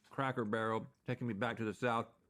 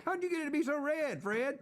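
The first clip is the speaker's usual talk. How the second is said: playful; 13 semitones higher than usual. Pretend. Playful rhyming question.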